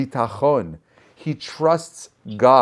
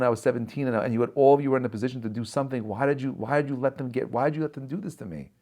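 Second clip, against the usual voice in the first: softer, wounded questioning; hurt reproach; 4 dB quieter, faster than usual. Retold or imitated. Yosef confronting his brothers about being abandoned, softer and wounded. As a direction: let the old pain leak through quietly.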